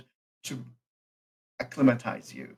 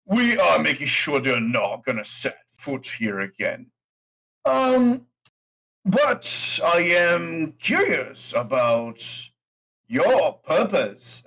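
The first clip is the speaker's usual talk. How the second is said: orc innkeeper; 3 semitones higher, slower than usual. Acted. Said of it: "he says that".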